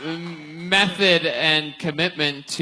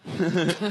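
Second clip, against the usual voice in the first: mock laugh after a punchline; imitated self-amused laugh; 5 dB quieter than usual. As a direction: mimic a comic laughing at their own joke. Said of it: "on every punchline you're like".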